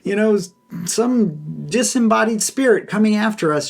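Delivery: high, fast, mock-frantic cries; mock panicked disciples. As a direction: play the disciples losing it over a ghost, a little hammed-up. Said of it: "his disciples are freaking out".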